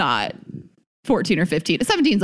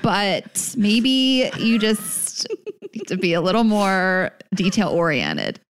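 mock tact; 2 semitones higher, slower than usual. Host gently replying to careless merch customers, mock tact. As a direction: break it gently, drawing out the words with a stifled laugh.

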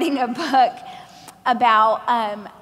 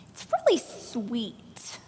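whispered; 9 dB quieter, much slower than usual. Retold or imitated. Mimics publishers' polite verdict.

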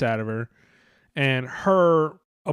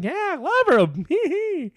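much higher, slow airhead voice; mock ditzy fan; much slower than usual. Mocking the rally woman with a high, slow ditzy voice. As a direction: play her as a slow, sing-song airhead. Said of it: "And she's like".

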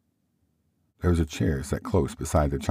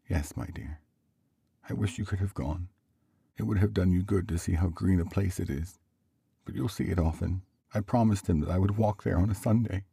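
a hint of wistful father; lightly voiced gentle husband; 4 semitones higher than usual. Bob telling his wife of the visit, gently wistful.

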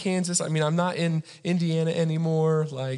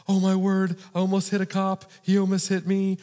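higher-pitched mock panic; acted alarm; 4 semitones higher than usual. Driver reacting to almost hitting a cop, mock alarmed. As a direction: retell the near miss in mild alarm. Startled retelling of near crash.

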